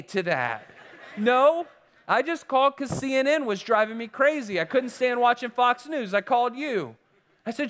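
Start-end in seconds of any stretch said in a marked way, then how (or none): 1.2-7.0 laughing retort. Retold or imitated. Retold inner reply, laughing.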